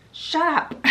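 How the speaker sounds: high, loud mock outburst; acted angry snap. Mother overhears and cuts daughter off, angry mock shout.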